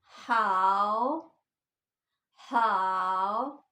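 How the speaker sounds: हाओ drawn out very slowly, dipping then rising; third tone on हाओ. Shown as a demonstration. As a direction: stretch हाओ into a dip and rise. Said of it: "जैसे हमने पढ़ा था". (हाओ धीरे, नीचे फिर ऊपर)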